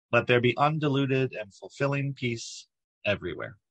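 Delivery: measured inspirational reading, pausing between phrases; formal reading. Acted. Leader reads a blessing to open morning meditation, formal reading. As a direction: read each blessing out evenly, with space after it.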